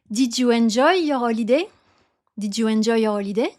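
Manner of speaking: French accent, HOLIDAY rising on DAY; group-final stress. Shown as a demonstration. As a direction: lean on the last syllable of HOLIDAY. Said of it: "You stress always the last syllable".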